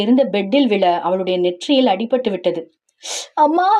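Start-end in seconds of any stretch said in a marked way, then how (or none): 3.4-3.7 short high cry of pain. Acted. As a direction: cry out as the head hits. Falls and hits her forehead. (வலியில் அலறல்)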